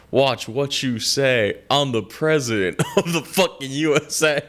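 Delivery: rapper line. Retold or imitated. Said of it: "the line he says".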